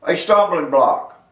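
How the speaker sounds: emphatic preaching. Real, not acted. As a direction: hammer out each phrase with pauses between. Preacher expounds the verse.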